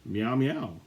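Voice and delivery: lightly voiced kitten meow; mewing. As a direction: mew it like a little cat. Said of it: "mewed Anya".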